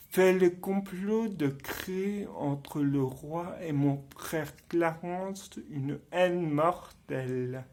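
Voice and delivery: low, soft villain's soliloquy; hushed theatrical plotting with deliberate pauses; confiding a plot. Acted. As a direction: lay out the scheme quietly, item by item. Acted villain reveals his plot.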